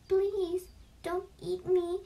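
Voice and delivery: high, pleading little-goat voice; tiny voice. A narrator's reading. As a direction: plead like a small frightened kid goat. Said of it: "in a tiny voice".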